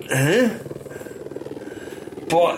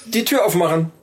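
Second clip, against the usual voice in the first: store announcement. Acted. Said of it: "rede wie eine Kaufhausdurchsage".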